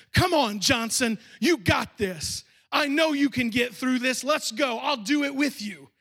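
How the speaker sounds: retold stern pep talk, punched at the start; stern but concerned. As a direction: urge him on sternly, with care. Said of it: "in a stern but concerned voice".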